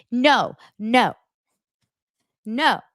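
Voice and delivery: a hint of outraged pushback; mock upset Lisa. Recapper imitating Lisa's indignant denial to Whitney. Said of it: "Lisa was like".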